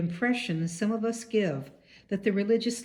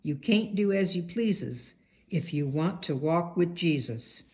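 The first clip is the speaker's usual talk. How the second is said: a hint of a Southern Baptist preacher's accent; lightly put-on Southern preacher accent. Speaker quoting a Baptist minister's words, light Southern accent. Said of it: "a Baptist minister with an even stronger accent".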